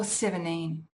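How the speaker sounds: seventeen said as "seveneen" with no T or D; casual dropped-T form. Shown as a demonstration. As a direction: drop the T after the N in seventeen. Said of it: "if I drop them both".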